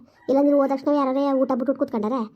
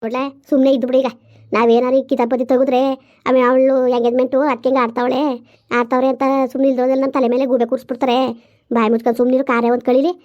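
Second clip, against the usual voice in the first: stern loud scolding; 5 dB louder than usual. Acted. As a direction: shut him up firmly. Mother firmly silencing son.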